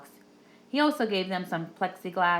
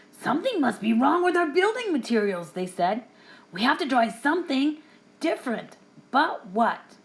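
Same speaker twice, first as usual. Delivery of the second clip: higher puzzled wolves' voices; worried little wolves; 5 semitones higher than usual. A narrator's reading. Wolves talking among themselves, high and puzzled. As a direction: wonder aloud what went wrong.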